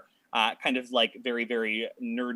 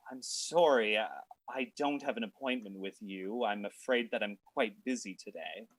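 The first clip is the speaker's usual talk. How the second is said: cool dismissive designer; 4 dB quieter than usual. Acted. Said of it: "cocks her eye and says".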